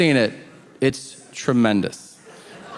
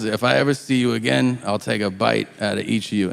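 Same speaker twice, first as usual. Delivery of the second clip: lower, fast threatening voice; mock inmate threat; 5 semitones lower, faster than usual. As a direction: rattle off the threat.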